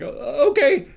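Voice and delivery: very high, loud quick okay; startled agreement. Retold or imitated. Answering Frank on the phone, very high and startled. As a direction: caught off guard and saying yes. Frank orders him to come.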